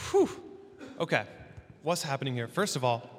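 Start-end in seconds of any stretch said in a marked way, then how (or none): 0.1-0.3 sharp, high exhaled whew. Real, not acted. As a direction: blow out a breath after a long reading. Relief after finishing the reading.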